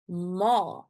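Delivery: "ma" with a long, drawn-out A; long vowel. Shown as a demonstration. Teacher introduces the Afrikaans word for mom, "ma" held long. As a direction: stretch the A in "ma". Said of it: "the sound of the A is very long".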